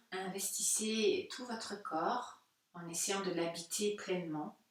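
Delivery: calm yoga nidra guidance with long pauses; unhurried meditation teacher voice; guided meditation. Real, not acted. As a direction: gently guide listeners inward, leaving space between phrases.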